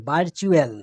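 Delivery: "ভার্চুয়াল" with the middle T sounded as চ. Shown as a demonstration. Teacher shows T becoming CH, "ভার্চুয়াল" said with চ. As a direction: say a clear CH inside "ভার্চুয়াল". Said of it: "আর চ দিয়ে দেখেন".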